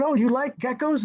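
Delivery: high-pitched, retold question to a child; friendly interest. Shaq to girl holding stuffed gecko, friendly interest. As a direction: imitate showing interest to a little kid.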